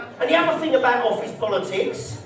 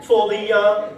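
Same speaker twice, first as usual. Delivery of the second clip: a hint of posh office type; mock posh colleague. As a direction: lightly mimic a snooty businessman interrupting. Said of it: "one of them little posh wankers".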